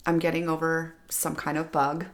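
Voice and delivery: raspy from a bug, voice worn. Real, not acted. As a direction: talk through a sick, raspy throat. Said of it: "So I have that sexy, raspy voice".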